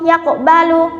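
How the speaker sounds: "yaqbalu" with a bounced q; echoing q inside "yaqbalu"; qalqalah sughra. Shown as a demonstration. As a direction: let the q of "yaqbalu" rebound before b. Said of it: "harus dipatulkan suaranya".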